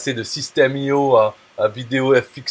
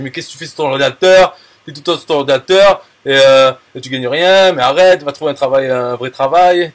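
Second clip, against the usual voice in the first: mock nagging relative, louder; reproche familial imité; 6 dB louder than usual. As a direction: scold like a fed-up parent, voice raised. Entourage familial qui fait pression, joué. (reproche agacé, imité, voix plus forte)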